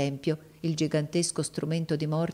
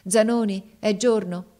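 raised, higher call; 5 semitones higher, 6 dB louder than usual. Acted. Viola wakes and calls for Zanoni, raised and higher. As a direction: call out for him on waking.

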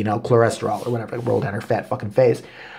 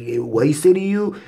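imitating the boyfriend; 3 semitones higher than usual. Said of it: "he was just like".

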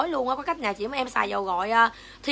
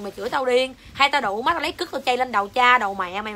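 real angry tirade, voice raised; angry cursing; 4 dB louder than usual. Real, not acted. Livestream seller cursing out an insulting commenter, angry scolding. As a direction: tell them off loudly and heatedly. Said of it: "em chửi tới mạng đứng luôn".

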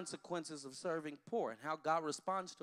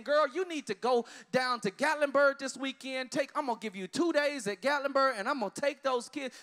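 caring friend; 7 semitones higher, 7 dB louder than usual. Retold or imitated. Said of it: "single mother with four kids saying".

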